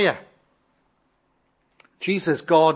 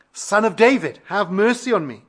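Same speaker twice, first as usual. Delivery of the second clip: louder, higher imitation of the beggar's insistent plea; crying out harder; 5 semitones higher, 6 dB louder than usual. Hushed beggar calls to Jesus all the more, crying out louder. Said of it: "he cried out all the more".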